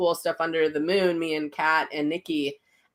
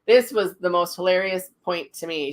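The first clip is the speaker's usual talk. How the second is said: ordinary talk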